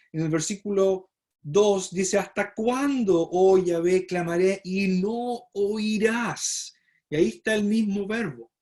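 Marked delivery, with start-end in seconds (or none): 2.2-6.7 prophet's lament. Acted. Prophet's complaint read aloud.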